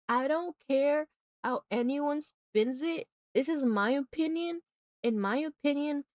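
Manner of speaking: high, slow, deliberate declaration; adamant, stretched-out words; emphatic insistence. Real, not acted. Repeats the rant emphatically.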